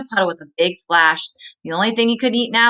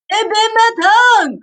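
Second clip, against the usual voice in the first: much higher and louder, yelping it out; coyote's pained cry; 13 semitones higher, 6 dB louder than usual. Acted. Coyote burned by the hot sauce, high yelping cry. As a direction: yelp like your tongue is on fire. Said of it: "cried Coyote".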